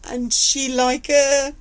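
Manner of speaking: barely holding back real tears; real tearful voice. Real, not acted. Telling viewers how the fight ended, choking up for real. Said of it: "Yes, I probably am".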